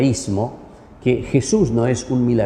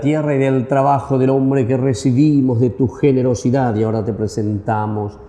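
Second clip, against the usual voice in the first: liturgical prayer. Acted. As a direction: intone it like a priest at mass. Priest intones offertory prayer.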